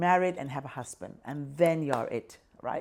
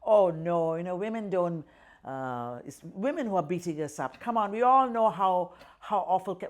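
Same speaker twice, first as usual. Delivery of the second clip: a hint of a jeering MP, louder at the start; mocking parliamentarian; 5 dB louder than usual. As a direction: lightly voice the dismissive MPs mocking women's claims. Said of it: "there's always this jokes about".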